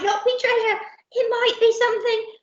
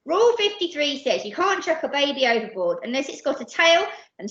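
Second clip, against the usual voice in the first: brisk, officious rule-quoting; protesting; 4 dB louder than usual. Acted. Percy quoting pirate rules to captain, earnest protest. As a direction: object by reciting the rules. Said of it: "protested Percy".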